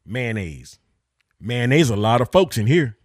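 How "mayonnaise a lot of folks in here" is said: put-on a lightly done redneck accent; Jeff Foxworthy redneck pun. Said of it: "use it in a sentence, like Jeff Foxworthy did".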